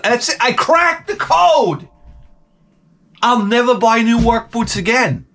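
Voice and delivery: high-pitched shout of victory; triumphant. Retold or imitated. Comic retelling his moment in comfy used boots, triumphant. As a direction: proclaim it high, like a great breakthrough.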